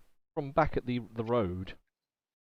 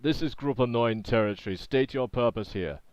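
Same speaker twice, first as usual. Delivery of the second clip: yelled challenge. Acted. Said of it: "it yells out".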